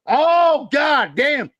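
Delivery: a real shout of god damn; exclaiming. Real, not acted. Exclaiming about angry moonshiners.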